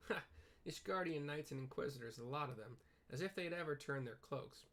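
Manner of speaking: hint of a rough trade-route worker, protesting loyalty; defensive dockhand. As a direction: play him as a wary local brushing off blame. Game NPC dialogue read aloud.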